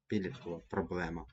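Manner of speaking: "підліткова" stressed on ПІД before "проблема"; PIDlitkova, stressing the first syllable of "підліткова". Shown as a demonstration. Teacher repeats the corrected phrase, "підліткова" stressed on ПІД. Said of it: "На перший склад".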